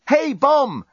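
high-pitched calling out; yell. A narrator's reading. Journalist yelling into the phone at the bomb. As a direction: yell to get its attention. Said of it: "yelled the journalist into the phone".

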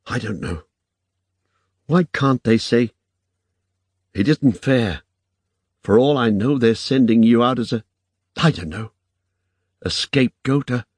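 high, upset woman's voice; Irene, troubled protest. A narrator's reading.

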